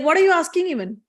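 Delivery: lightly voiced affronted loyal wife; indignant woman. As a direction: refuse him, mildly scandalized. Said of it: "She's like".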